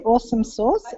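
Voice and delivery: lightly imitated American Southern accent; a hint of country Southern on "Awesome sauce". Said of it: "she said it in a Southern country accent".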